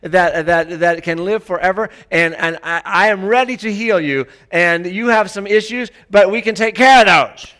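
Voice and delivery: loving Holy Spirit. Retold or imitated. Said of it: "the Holy Spirit says".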